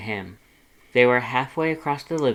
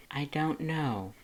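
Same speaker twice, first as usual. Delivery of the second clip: Lust's voice; 4 semitones higher, 5 dB quieter, slower than usual. A narrator's reading. Lust answering, softer higher.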